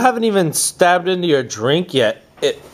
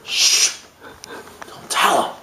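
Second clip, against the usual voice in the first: unvoiced shush. Real, not acted. Shushing a friend so he won't hear. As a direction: hush them quick.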